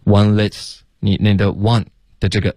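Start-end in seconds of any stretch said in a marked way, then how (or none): 0.0-0.8 "Want this" said as "wan less"; learner's error. Shown as a demonstration. Teacher copying the student's slip, wrong consonants. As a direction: imitate "Want this" with no stop and an l for th. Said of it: "发成less，less".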